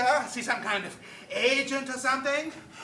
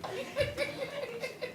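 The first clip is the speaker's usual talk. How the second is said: braying laugh; 9 dB quieter than usual. Acted. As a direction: bray out a donkey-like laugh. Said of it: "that terrible braying laugh of yours".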